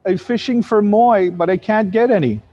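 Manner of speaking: lightly voiced little girl complaining. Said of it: "little Hawaiian girl said".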